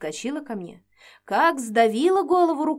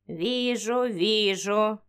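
put-on old woman whispering; much slower than usual. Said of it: "прошептала старуха".

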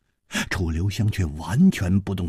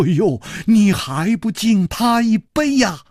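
high, slow gushing delight; excited; 8 semitones higher, slower than usual. Acted. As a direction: clap and crow with delight. Clapping, excited about 楚香帅.

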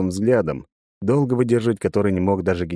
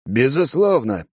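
easy agreement; 7 semitones higher, 3 dB louder, slower than usual. A narrator's reading. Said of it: "поразительно легко согласился".

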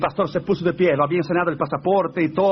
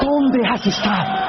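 shouted question; 6 semitones higher, much slower than usual. Retold or imitated. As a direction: throw the question at him. KGB agent repeats the question.

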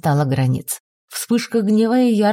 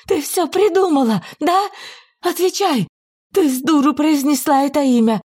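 high, frantic commands, climbing; furious threats; 7 semitones higher than usual. Acted. Lady blocks the frightened visitor, high frantic threats. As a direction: threaten her, half mad with terror.

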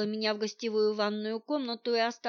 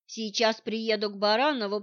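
ordinary delivery, nothing marked

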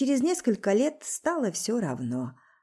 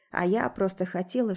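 ordinary delivery, nothing marked

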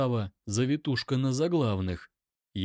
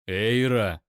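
loud warning growl; growling her name in anger; 5 dB louder than usual. Acted. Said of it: "прорычал я".

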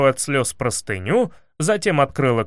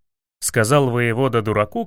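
plain reading voice

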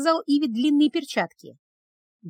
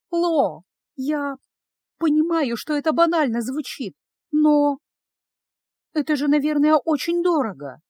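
put-on a young woman, higher, shy and overwhelmed; lightly girlish, embarrassed by the cost; higher young woman voice, bashful; 5 semitones higher than usual. A narrator's reading. Girl voiced higher than narration.

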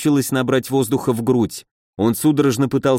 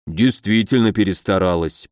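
crestfallen; 6 semitones lower than usual. A narrator's reading. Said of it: "понурила голову Арчиха".

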